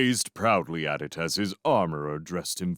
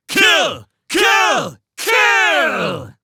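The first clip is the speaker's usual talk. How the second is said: far higher, very loud chanted reply; frenzied roar; 11 dB louder, much slower than usual. Acted. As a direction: roar back like a mob. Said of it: "they roared back their frenzied replies".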